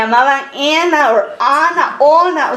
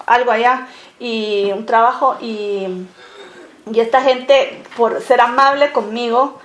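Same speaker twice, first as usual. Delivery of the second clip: ordinary talk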